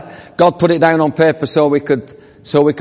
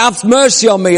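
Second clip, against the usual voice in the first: calling out; 4 semitones higher, 3 dB louder than usual. Acted. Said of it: "He called out".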